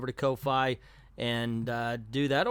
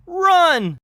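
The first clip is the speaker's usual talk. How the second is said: very high, very loud yell to flee; panicked scream; 10 dB louder than usual. Acted. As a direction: scream it as the kids bolt. Kids flee the crooks.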